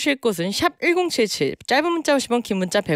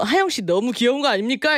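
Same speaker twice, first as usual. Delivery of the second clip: ordinary delivery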